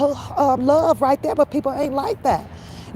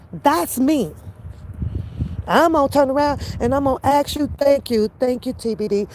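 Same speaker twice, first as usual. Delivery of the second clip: ordinary talk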